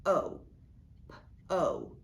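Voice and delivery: O held as "oh", P as a bare puff; O long, P popped without a vowel; long vowel sounded out. Shown as a demonstration. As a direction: isolate each sound: "oh", then "p", "oh". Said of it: "gives the vowel its long sound".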